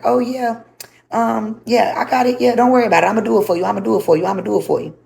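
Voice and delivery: imitated eager compliance. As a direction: mimic him falling over himself to agree. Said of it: "somebody will call you and be like".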